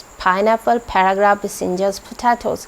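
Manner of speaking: पाइनएप्पल again with a breathy ph start; aspirated p. Shown as a demonstration. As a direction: puff air on the p of पोटैटोज़. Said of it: "इसकी sound होती है फ".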